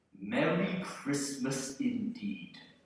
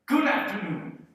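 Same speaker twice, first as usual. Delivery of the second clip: higher, louder mocking echo; incredulous scorn; 12 semitones higher, 7 dB louder than usual. Scrooge mocking his nephew's marriage. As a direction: throw his words back at him.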